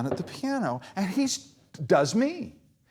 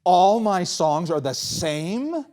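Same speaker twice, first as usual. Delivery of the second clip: mock indignation. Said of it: "here's what incensed me".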